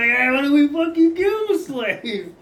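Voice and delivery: high, loud rowdy crewman; rough pirate crewman. Acted. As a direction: jeer like a rowdy deckhand.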